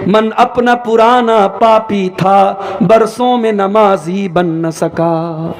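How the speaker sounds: slow, measured recital of a couplet; slow Urdu poetry recital over music; poem recitation. Acted. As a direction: recite the verse slowly, with weight.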